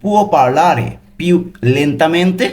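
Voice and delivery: extremely slow, drawn-out Italian question. Shown as a demonstration. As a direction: stretch every syllable for learners. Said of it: "এটার Italian কি হবে".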